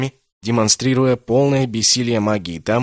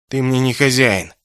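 stubborn defiance; 3 semitones higher, 4 dB louder than usual. Acted. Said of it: "упрямо отмолвил Кэссин".

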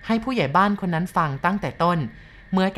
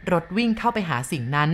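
plain reading voice

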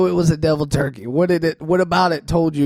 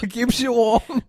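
silly high voice; 7 semitones higher, slower than usual. Pretend. Playful repeat in put-on voice.

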